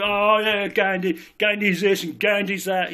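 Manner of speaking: lightly mimicked know-it-all chatter; dismissive naysayers. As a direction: imitate people brushing someone off. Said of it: "I know a lot of people".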